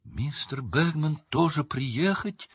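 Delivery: high, slow elf squeak; squeaky. A narrator's reading. Winky asking Hermione about Mr Bagman, squeaky. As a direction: squeak the question out. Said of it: "пискнула Винки".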